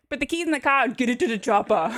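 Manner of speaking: Boston sliding into mock Austrian; Schwarzenegger. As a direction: lightly parody an Austrian action star. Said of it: "really close to Schwarzenegger".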